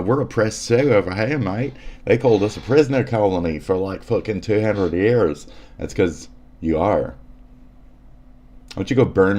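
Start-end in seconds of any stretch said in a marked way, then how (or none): 0.0-5.4 higher-pitched Australian accent mimicry; mock an Australian whining about oppression; light put-on Australian voice. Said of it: "this includes Australian".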